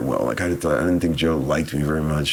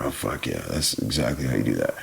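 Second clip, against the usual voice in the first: mock realization; 6 semitones lower, 5 dB quieter than usual. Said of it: "and I'm like".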